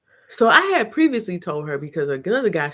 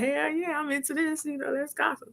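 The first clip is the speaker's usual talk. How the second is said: conspiratorial; 8 semitones higher, 8 dB quieter than usual. Retold or imitated. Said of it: "And I was like".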